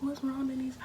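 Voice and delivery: high concerned friend voice; friend asking. Retold or imitated. Friend asking Denise what's wrong, high and concerned. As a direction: ask her what's wrong, worried. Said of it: "She was like".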